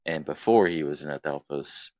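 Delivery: muffled, talking around a cap; words blocked by a cap in the mouth. Real, not acted. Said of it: "We can hear you fucking muffled voice 'cause you have a cap in your mouth".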